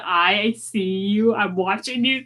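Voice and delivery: suspicious warning. Pretend. Player eyeing a stranger, mock suspicion. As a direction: draw the words out, keeping watch. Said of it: "narrow my eyes slowly and do".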